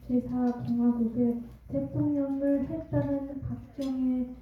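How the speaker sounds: halting Korean with Korean American accent. Real, not acted. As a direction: Korean spoken by a Korean American heritage speaker. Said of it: "저의 한국말이 좀, 아, 서툴지만".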